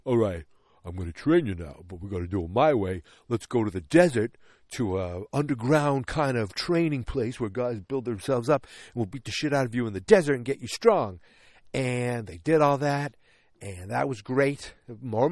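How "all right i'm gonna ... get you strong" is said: a hint of Rocky, a bit louder; lightly voiced coach Rocky laying out the plan. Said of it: "And Rocky's like".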